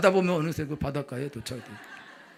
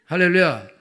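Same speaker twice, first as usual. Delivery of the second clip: preacher's hallelujah; 7 dB louder than usual. Real, not acted. Preacher calls out.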